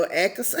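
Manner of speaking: X said as "EK-uh-suh"; Nigerian pronunciation. Shown as a demonstration. Repeating the Nigerian way of saying the letter, X as "ek-uh-suh". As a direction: break X into syllables, "ek-uh-suh". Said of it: "in Nigeria, I would say".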